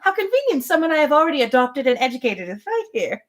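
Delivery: high, arch sarcasm; a high, knowing mock reply; mock sarcastic Emma. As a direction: play Emma's dry inner irony. Voices Emma's sarcastic thought.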